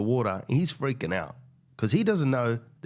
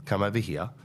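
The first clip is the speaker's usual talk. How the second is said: coaxing; 3 semitones lower than usual. Retold or imitated. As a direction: gently coax the animal across. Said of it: "delicately brings him over".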